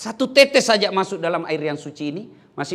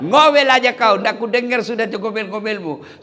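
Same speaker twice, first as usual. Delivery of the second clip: louder, higher, laughing mock taunt; gloating husband; 5 semitones higher, 6 dB louder than usual. Husband taunting his wife in the well, higher laughing jeer. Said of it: "Dia bilang suaminya".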